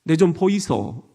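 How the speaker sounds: lightly voiced Gyeongsang accent; a hint of Gyeongsang lilt; Gyeongsang dialect. Shown as a demonstration. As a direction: call for attention like a Gyeongsang local. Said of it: "경상도는".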